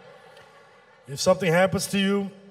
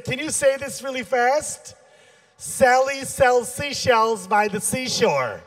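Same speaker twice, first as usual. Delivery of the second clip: put-on eight-year-old son; 4 semitones higher, slower than usual. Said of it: "eight-year-old son".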